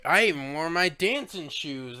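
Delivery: lightly imitated southern accent; mock southern accent. Film goon talking about going to a dance, mock southern accent. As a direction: put on a playful southern twang. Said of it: "one of them has a southern accent".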